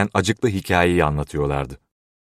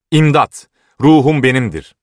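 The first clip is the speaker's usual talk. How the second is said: high, loud desperate shout; raised, high cry for help; 7 semitones higher, 7 dB louder than usual. A narrator's reading. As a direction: shout it out as you flee. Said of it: "diye bağırıyordu".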